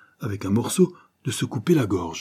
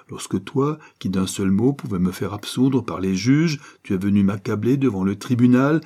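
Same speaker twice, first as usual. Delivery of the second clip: a moderately raised ringing voice of righteous anger. Acted. Kerjean condemning Favreau to live under his guard, ringing voice. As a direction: thunder his verdict down on the banker. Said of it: "reprit d'une voix éclatante".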